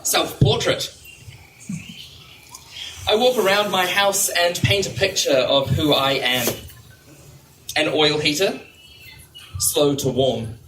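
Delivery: measured list poem, pausing after each item; poetry reading. Real, not acted. Poet listing household things as a self-portrait, measured poetry-reading voice. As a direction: set each image apart with a pause.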